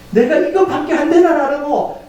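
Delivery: high-pitched preacher's lament; acted lament. Preacher warns congregation of coming struggles, acted lament. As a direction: lift the voice into dismayed lamenting. Voices self-lament within sermon.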